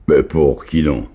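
crié plus fort, ému; cri attendri. A narrator's reading. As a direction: Nikita crie, attendri, aux fillettes. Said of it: "cria Nikita, attendri". (cri ému et plus fort)

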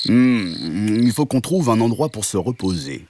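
long humming moo into the line; lightly voiced cow; cow character. Cow suggests a rest to friends, humming cow voice. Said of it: "dit la vache".

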